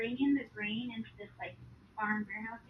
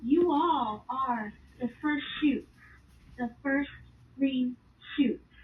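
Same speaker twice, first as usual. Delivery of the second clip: slowed, louder, earnest proclamation; solemn divine declaration; 2 semitones higher, 6 dB louder, slower than usual. Retold or imitated. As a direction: declare it with tender gravity. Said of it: "He says".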